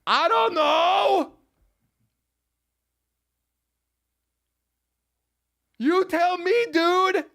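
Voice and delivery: high, slow, mocking you tell me dude; high slow mock sass; sarcastic retort. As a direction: throw it back at him, dragging it out. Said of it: "And I say".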